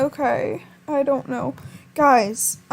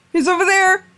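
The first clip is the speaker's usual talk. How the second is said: startled; 5 semitones higher, 7 dB louder than usual. Real, not acted. Panicked game reaction.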